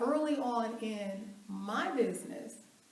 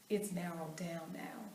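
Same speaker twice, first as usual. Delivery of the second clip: soft unvoiced aside; whispered aside; 5 semitones lower, 8 dB quieter than usual. Real, not acted. Telling the audience her focus now, in a whisper. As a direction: let it slip as a secret.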